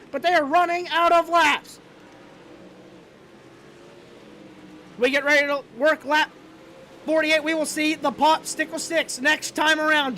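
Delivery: brisk, steady live race call; race play-by-play. Acted. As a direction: keep the lap-by-lap call rolling.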